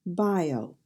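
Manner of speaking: "Bio" stressed on BI; BI-o, clearly front-stressed; stress on first syllable. Shown as a demonstration. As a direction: lean on the first syllable of "Bio", drop off after it. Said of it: "accent on the first syllable".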